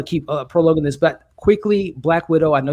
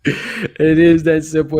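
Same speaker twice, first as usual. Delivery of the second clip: slow, heavy stress on "is"; emphatic agreement; 4 dB louder, much slower than usual. Real, not acted. Host echoing a co-host's joke about rioting, slow and emphatic. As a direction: lean hard on "is" and drag it out.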